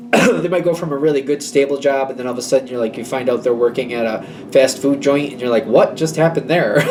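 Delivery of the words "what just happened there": slow, amused disbelief; baffled. Retold or imitated. You to the friend in a fast food job, baffled. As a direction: react in bemused shock with a laugh.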